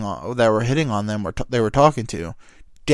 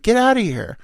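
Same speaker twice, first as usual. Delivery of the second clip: loud, high dismissal; mock angry yelling; 11 semitones higher, 5 dB louder than usual. Buddy driving off the fry thief, acted angry shout. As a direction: imitate an irate man sending someone away. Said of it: "so mad that he got ye-, they yelled it".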